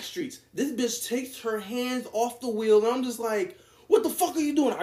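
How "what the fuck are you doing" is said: higher, louder alarmed shout at the driver; retold alarmed yell. To the driver who let go of the wheel, alarmed yell.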